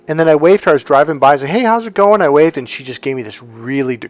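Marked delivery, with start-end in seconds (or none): 1.5-2.2 high, loud acted hello; bright retold hail, pitched up; friendly call-out. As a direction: imitate a cheery drive-by greeting. Retells friendly greeting while waving.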